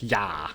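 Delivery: "ya" spoken as a clear, stressed syllable; isolated demo syllable; pronunciation demo. Shown as a demonstration. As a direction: show how the first syllable sounds. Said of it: "so it's more like".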